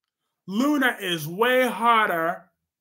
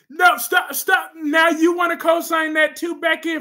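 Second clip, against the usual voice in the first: mock outrage; 6 semitones higher, 4 dB louder than usual. Real, not acted. Shouting at chat viewer.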